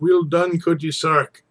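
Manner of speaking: roaring cheer. Acted. Tam cheering the dancing witch, a loud roar. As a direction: bellow it out loud and high. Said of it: "and roars out".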